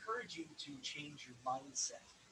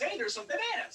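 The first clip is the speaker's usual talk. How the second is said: high, loud mock excitement; excited monkey discovery; 7 dB louder than usual. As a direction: act out a monkey thrilled at its find. Voices monkey spotting the bananas.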